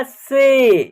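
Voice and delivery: से with a held 'ay' sound; long E in से. Shown as a demonstration. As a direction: draw out the vowel in से as 'ay'. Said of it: "ए का उच्चारण ए हो रहा है". (से में लंबा ए)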